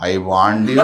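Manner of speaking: deep, knowing voice from nowhere; low warning. Retold or imitated. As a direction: drop low for a sly warning. Sound comes slowly on the way.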